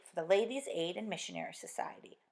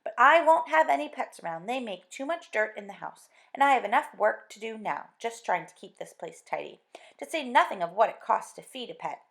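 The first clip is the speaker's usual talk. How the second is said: louder, higher nagging wife; exasperated scolding; 4 semitones higher, 10 dB louder than usual. Acted. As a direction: scold him, fed up with pets. Wife scolds about pets.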